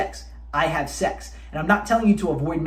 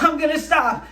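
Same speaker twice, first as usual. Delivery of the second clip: mock resolve; 8 semitones higher than usual. Man on the edge, insisting he'll stop. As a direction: pitch it up as a strained promise to stop. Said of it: "you're like".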